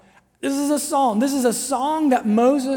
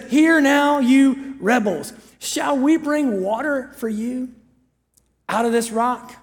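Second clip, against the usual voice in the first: angry Moses; slower than usual. Retold or imitated. Moses berating the assembly before the rock, mock angry. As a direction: berate the crowd, stretching the words. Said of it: "There's something about angry Moses".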